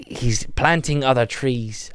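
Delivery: slow, wobbly put-on Irish; Irish accent losing its way; wandering Irish accent. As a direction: stretch it out in an uncertain mock-Irish brogue. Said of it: "I don't even know where this accent's going".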